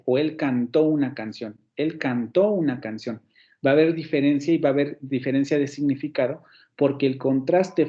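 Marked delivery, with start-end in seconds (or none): 0.2-3.2 "cantó" stressed on the final -tó; stress on cantó's end. Shown as a demonstration. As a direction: make the -tó of "cantó" stand out in the phrase. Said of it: "Hay una diferencia".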